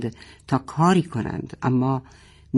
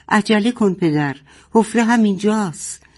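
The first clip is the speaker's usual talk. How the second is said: light shout; 6 semitones higher than usual. Acted. Boteh calling her father to hurry to the hole, mock shout. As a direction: call out to him, urgent. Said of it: "بوته فریاد کرد".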